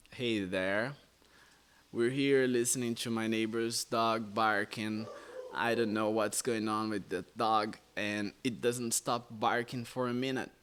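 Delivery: slow, relaxed American delivery; natural American English. Shown as a demonstration. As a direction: talk like a laid-back native. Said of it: "um americano falaria". (inglês americano natural e descontraído)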